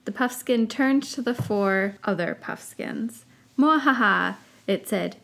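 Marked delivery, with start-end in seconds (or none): 3.6-4.4 creature cackle. Acted. Puffskin teaching others.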